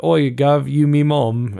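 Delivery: loud, high hammed-up Cockney street urchin; a Dickensian wastrel, overdone; mock Cockney wastrel. Australian imitated as a Victorian wastrel in a hammed-up Cockney accent. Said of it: "they talk like, uh, Victorian wastrels".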